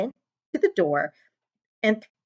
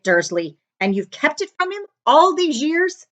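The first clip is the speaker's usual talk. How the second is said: trembling with rage; 3 semitones higher, 4 dB louder than usual. A narrator's reading. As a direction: let rage build through the accusation. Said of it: "trembled with rage".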